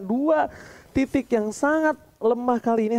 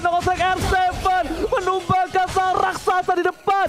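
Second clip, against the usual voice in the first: fighting game announcer; 6 semitones higher than usual. Real, not acted. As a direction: roar the Maniac like an arena announcer. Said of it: "caster screams triple kill, Maniac". (teriakan penyiar game pertarungan)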